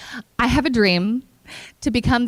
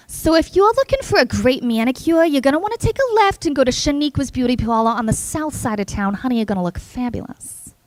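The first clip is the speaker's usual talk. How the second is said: Brooklyn accent. Shown as a demonstration. GPS sending a driver to the beauty parlor, Brooklyn accent. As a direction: give directions in a hammed-up Brooklyn accent. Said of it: "Brooklyn, like, from Brooklyn".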